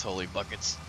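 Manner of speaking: a light Irish lilt on holy buckets; a hint of Irish brogue; Irish accent. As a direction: quote him in a mild Irish accent. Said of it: "with his Irish accent".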